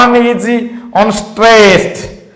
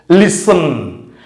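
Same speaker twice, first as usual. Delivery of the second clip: Listen with LIS stressed and a falling, unstressed second syllable; stress on first syllable; 3 semitones lower, 3 dB quieter than usual. Shown as a demonstration. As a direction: hit the start of Listen and let the end fall. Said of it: "But the second syllable is not stressed".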